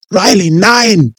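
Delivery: high, loud, slow cry of horror; anguished shout of Riley; anguished scream. Acted. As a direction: scream his name in horror. Someone sees him shot.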